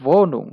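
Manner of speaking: "Wohnung" said voh-nung; long oh in German "Wohnung". Shown as a demonstration. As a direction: model "Wohnung" starting with a v. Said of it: "ভ উচ্চারণ হচ্ছে".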